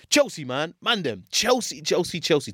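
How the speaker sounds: slow, high exasperated groan. Real, not acted. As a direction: drag out the team name in despair. Exasperated lament about Chelsea.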